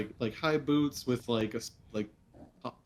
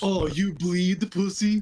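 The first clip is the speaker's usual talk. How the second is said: put-on Russian accent, pitched much higher; 5 semitones higher, 8 dB louder than usual. Riffing with others on a joke bit, speaking in a put-on Russian accent. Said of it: "you just do it with the accent".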